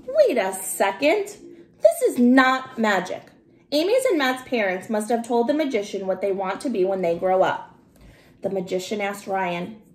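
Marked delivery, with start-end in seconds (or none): 0.1-7.8 called out. Acted. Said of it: "Ryan called out".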